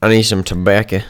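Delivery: lightly put-on southern twang; southern accent tryout. Shown as a demonstration. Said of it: "What's the southern accent?".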